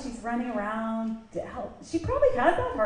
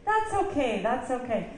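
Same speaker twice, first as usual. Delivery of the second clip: lightly acted, lilting forgiveness; reassuring guest; 2 semitones higher than usual. Early guest answering the host's apology, lilting reassurance.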